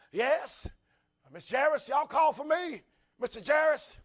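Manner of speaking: a hint of a polite undertaker calling; undertaker at the door. Undertaker greeting the Jairus family, lightly voiced.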